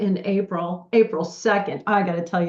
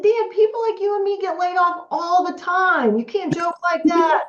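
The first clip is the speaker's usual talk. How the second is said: retold scolding; 10 semitones higher than usual. Scolding friend over fake layoff.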